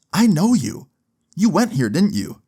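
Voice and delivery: high-pitched imitation of a delighted-to-place-you principal; surprised recognition. Principal recognising her former pupil, mildly surprised. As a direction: voice lifts high, then settles on the question.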